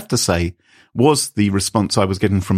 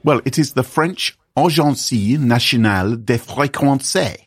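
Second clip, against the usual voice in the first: fake French accent. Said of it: "this fake French the whole way through".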